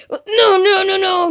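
rapid-fire dread; alarmed string of refusals; panicked protest. Acted. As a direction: refuse in alarm, a touch high. Ash dreads the Bop It.

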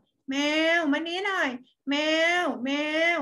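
put-on slow drawn-out call to the child; mother calling. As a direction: call the name like mom from another room. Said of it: "คุณแม่อาจจะ อาจจะเรียก". (แม่เรียกลูกช้าๆ ยืดเสียง)

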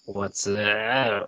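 warbly auto-tuned greeting; auto-tune sound. Real, not acted. Greeting a friend on the call, auto-tune sound. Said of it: "That was like an auto-tune".

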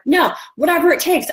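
high, insistent retort, acted out; determined protest. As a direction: play someone refusing to give up. Acts out actress refusing to give up.

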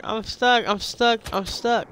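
exaggerated high-pitched whine; mock distressed cry. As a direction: replay it in a high, silly voice. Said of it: "I'm like".

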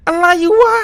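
exasperated cry at the frozen game; อุทานหงุดหงิด. Real, not acted. Game freezes suddenly.

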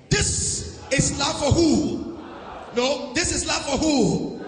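slow shouted call-and-response question; preaching shout. Real, not acted. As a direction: demand the answer from them. Pastor quizzing congregation loudly.

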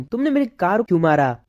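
ordinary delivery, nothing marked

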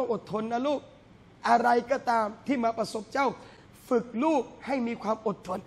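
gentle parent coaxing a little one; a hint of a tender father guiding his child. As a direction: talk to your child softly, like a caring father. Parent voiced advising a child.

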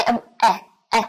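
e said flat, between a and e; flat ash vowel; English flat e. Shown as a demonstration. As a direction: spread the lips for the flat English e. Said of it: "âm e bẹt ở trong tiếng Anh".

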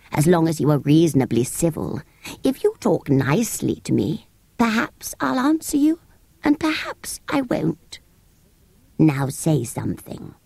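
fickle sand fairy. Acted. Sand fairy teases the children, fickle and lofty. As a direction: toy with them.

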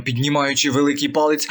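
usual speaking voice

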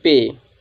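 पे said again as one long, low ए vowel; पे repeated slowly as the model word; repeated pronunciation model. Shown as a demonstration. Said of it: "इसको पढ़ेंगे हम". (पे को दोबारा लंबे ए स्वर में धीरे से बोलना)

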